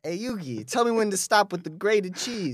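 lightly put-on anime sidekick voice; a hint of cartoon tough-guy waiter; Joey Wheeler. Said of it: "All butlers sound like Joey Wheeler".

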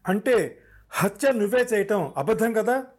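high, loud accusing question; loud demand. A narrator's reading. Shreya loudly challenging the suspect's false confession. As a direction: nail him with it. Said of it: "గట్టిగా అడిగింది".

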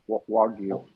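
Wagyu said as WAHG-you; O-like vowel. Shown as a demonstration. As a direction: say Wagyu with an open, rounded "wah". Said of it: "sounds more of an O".

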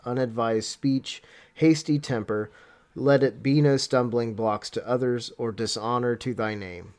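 measured, solemn reading of a prayer; formal devotional read-aloud. Real, not acted. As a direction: read the prayer in steady phrases, pausing between petitions. Reads a written prayer aloud.

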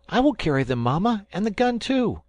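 put-on a boy eagerly calling out for the bowls; eager cry. A narrator's reading. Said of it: "cried Ernest".

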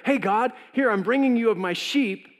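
high, loud, casual hey God; breezy offering. Retold or imitated. Abel cheerfully presenting his sheep to God, casual and high. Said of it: "it wasn't like they didn't know".

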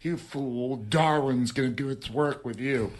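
mocking the people who call him an anti-vaxxer. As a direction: sneer at the mocker in a put-on voice. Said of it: "And you're like".

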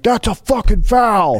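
high, slow, loud redneck heckle; redneck fan yell. Retold or imitated. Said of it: "he kept yelling".

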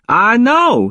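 high, delighted cut-in; eager interruption. A narrator's reading. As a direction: jump in eagerly, pitched well up. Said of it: "he cut me off and started laughing".

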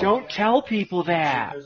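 slow, drawn-out mock plea; lightly put-on slow pleading; imitating Rick. Host mimicking the teased fan, slow mock plea. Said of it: "He's like".

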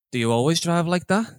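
imitated old man with a European accent. Old man challenging a driver in the lift, European accent. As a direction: put on a light, vaguely European accent. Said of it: "some kind of European accent".

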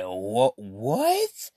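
second what jumps way up in disbelief; can't believe what he just heard; incredulous what. Retold or imitated. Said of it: "I'm like".

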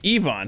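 "Yvonne" as ee-VON; long E. Shown as a demonstration. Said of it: "a long E at the front".

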